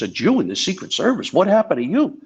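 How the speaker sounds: high, rising incredulous jab; Don Rickles' mock disbelief. Comic ribbing the Jewish agent, high incredulous jab. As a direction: needle him like a stunned insult comic. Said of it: "He goes".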